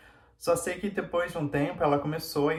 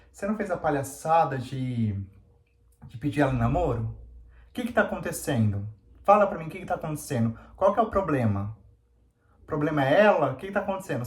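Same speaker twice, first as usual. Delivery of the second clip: imitating angry mother; 2 semitones higher, 3 dB louder than usual. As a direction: replay her demanding answers, a bit louder. Mãe dela cobrando explicações. (imitando a mãe brava, mais alto)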